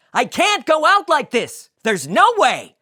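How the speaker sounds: high, loud panicked Jerry; character voice, loud and high; Jerry despairing. Acted. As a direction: wail it like the haircut ruined your life. Jerry despairing over haircut.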